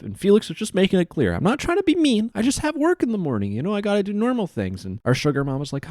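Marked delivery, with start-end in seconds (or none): 1.3-4.8 mock pleading. Voicing Felix pleading to leave.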